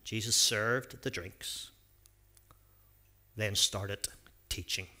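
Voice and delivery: lively storybook reading with acted voices; reading a story to children. A narrator's reading. Pastor reading a Bible story to children, lively storytelling. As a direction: read it out like a picture book for the kids.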